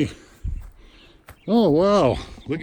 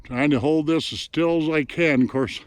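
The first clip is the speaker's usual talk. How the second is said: out of breath; 3 semitones lower, 3 dB quieter than usual. Real, not acted. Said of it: "I'm about half out of breath".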